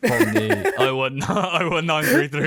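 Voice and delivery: the numbers break into real laughter; laughing through it. Real, not acted. Joking to co-host about their area code, laughing.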